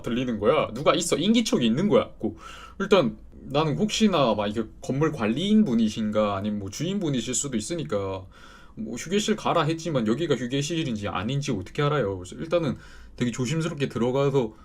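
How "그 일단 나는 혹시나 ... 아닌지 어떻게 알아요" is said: normal talking voice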